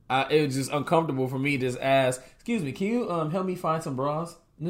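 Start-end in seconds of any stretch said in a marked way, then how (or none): 2.3-4.3 higher-pitched, tentative customer request; acted-out polite shopper; polite asking voice. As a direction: ask a store clerk for help, pitched up. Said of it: "Is that the voice you use?".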